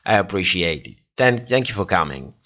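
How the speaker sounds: just too tired to lift it. Real, not acted. Streamer thanks a late viewer, sounding tired. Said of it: "I'm just tired".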